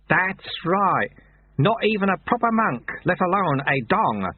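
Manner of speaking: put-on bright old sweeper, pleased with himself; chirpy, amused self-deprecation; cheerful. A narrator's reading. Old sweeper cheerfully admits his lowly rank, cheerful. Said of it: "said the sweeper cheerfully".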